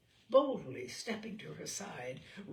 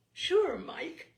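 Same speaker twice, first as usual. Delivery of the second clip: higher, louder, delighted reply; joyful; 8 semitones higher, 8 dB louder than usual. A narrator's reading. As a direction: greet the offer with glee. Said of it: "she said joyfully".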